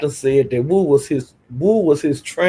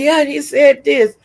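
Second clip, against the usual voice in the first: high-pitched, excited imitation of a hype man; mock egging on; 10 semitones higher than usual. Imitating Wu interpreting for Larry, excitedly egging him on. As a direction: goad him on in a raised, squeaky voice.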